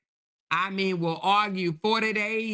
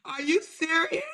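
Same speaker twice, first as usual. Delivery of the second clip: much higher, shouted; real surprised shout; shocked disbelief; 8 semitones higher than usual. Real, not acted. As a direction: burst out in disbelief.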